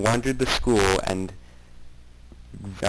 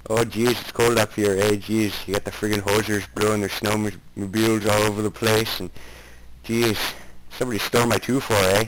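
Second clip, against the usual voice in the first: loud hammed-up Canadian accent, jeez and eh; exaggerated Canadian accent; 2 semitones higher, 3 dB louder than usual. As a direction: play the cartoon Canadian griping about the cold, loud. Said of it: "That is an excellent Canadian accent you have there".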